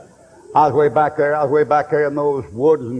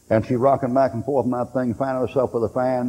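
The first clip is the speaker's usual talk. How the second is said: ordinary talk, nothing marked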